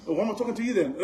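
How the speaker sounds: laughing retort. Retold or imitated.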